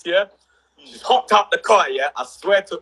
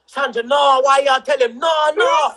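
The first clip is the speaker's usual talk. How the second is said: nan shouting no; 6 semitones higher, slower than usual. Retold or imitated. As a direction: shout the no's like a cross grandmother. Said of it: "my nan was like".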